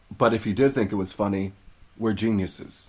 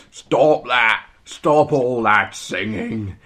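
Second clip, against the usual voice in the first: mock Scottish father; 5 dB louder, much slower than usual. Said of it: "I played a Scottish person".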